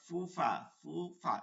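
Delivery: ফুফা with breath hissing through teeth and lip; audible f sound. Shown as a demonstration. Teacher showing that the sound comes, f in ফুফা. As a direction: say ফুফা with Arabic f. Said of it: "শব্দ আসে".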